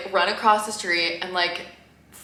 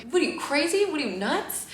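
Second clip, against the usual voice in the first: higher, teasing New York guy scolding her; New York delivery guy; 10 semitones higher than usual. Retold or imitated. Driver teasing her for carrying the box, high mock-scolding. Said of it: "a really thick New York accent".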